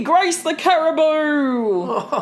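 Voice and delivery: mock Australian accent, laughing through it; a caribou in a jokey Australian accent. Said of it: "with the Australian accent".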